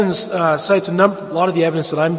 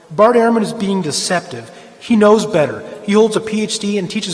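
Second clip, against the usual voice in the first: firm, louder, hammering the charge home; heated accusation; 3 semitones higher, 3 dB louder than usual. Real, not acted. Lecturer calling out a fellow scholar on camera, heated and louder. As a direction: say it like you are fed up and mean it. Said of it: "sorry, I'm just getting emotional here".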